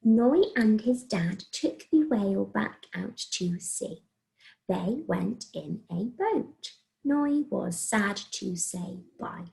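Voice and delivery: slow, word-by-word reading; careful read-through. Shown as a demonstration. Teacher checking two written sentences, read carefully. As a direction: read it back slowly, every word separate. I'm gonna double check.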